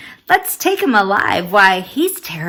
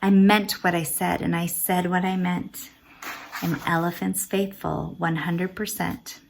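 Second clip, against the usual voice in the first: sad vow; 3 semitones lower, 6 dB quieter than usual. Acted. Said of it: "he said as he sat".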